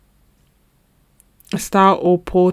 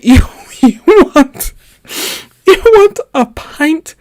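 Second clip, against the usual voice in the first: aghast, much higher and louder; incredulous disbelief; 9 semitones higher, 6 dB louder than usual. Retold or imitated. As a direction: play the stunned bartender repeating it back. Bartender stunned by pint request.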